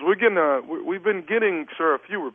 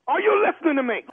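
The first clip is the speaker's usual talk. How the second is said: high, demanding challenge; insistent, voice raised in argument; 11 semitones higher, faster than usual. Real, not acted. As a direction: push the pitch up and demand his attention. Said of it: "who you keep raising your voice".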